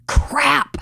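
hushed, breathy "crap"; whispered curse. Retold or imitated. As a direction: whisper it under your breath. Mom realizes the son is crying.

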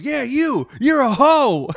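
loud, very high jeering holler; mock yelling. Old driver pointing at the girlfriend, high mock yell. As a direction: hurl it like a cartoonish road-rager. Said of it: "He's yelling".

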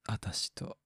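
husky whispered come-on in a camp okama voice; teasing okama seduction, whispered. Retold or imitated. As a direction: breathe it like a flirty okama. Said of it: "みたいな".

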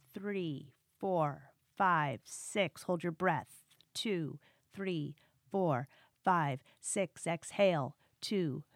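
calm, slow counted breath cues; slow counted breathing coach. Acted. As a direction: count the breaths slowly and evenly.

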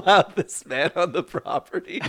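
loud, formal warning voice; stern official notice. Retold or imitated. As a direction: read it like a posted order.

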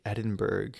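Edinburgh ending in a hard "berg"; incorrect pronunciation. Acted. Untravelled American asking a traveler, mispronouncing Edinburgh as "Edin-berg". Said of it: "pronounce it incorrectly like they did".

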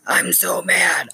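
loud, slow, wailing mock rage; hammed-up tantrum. Mom acting out her own tantrum, slow loud mock wail. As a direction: wail it like a monster bride waking up. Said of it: "like I'm Frankenstein's bride".

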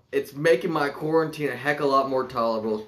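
smooth product pitch, selling hard; sleazy salesman. Acted. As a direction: read it like a pushy salesman. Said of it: "Put on your good salesman voice".

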